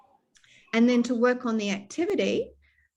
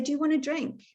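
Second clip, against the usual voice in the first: clear simple question to patient; 5 semitones higher than usual. Shown as a demonstration. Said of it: "So I might say".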